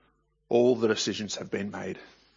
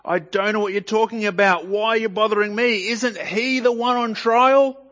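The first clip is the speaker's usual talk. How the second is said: much higher, louder exasperated denial; strong response; 11 semitones higher, 7 dB louder than usual. Acted. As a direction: push back hard, almost shouting. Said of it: "Peter gives a strong response".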